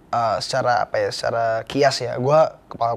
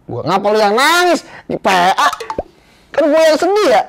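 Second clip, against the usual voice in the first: teasing laugh; 9 semitones higher, 5 dB louder than usual. Real, not acted. Teasing the host for crying.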